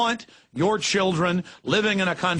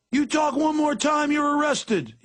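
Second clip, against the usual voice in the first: much higher shouted threat; screaming cop; 10 semitones higher than usual. Retold or imitated. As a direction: yell the threat like a bullying cop. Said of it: "screamed at by police".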